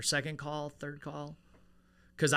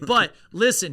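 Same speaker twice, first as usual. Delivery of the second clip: whiny protest; 7 semitones higher, 11 dB louder than usual. Retold or imitated. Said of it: "I'd be like".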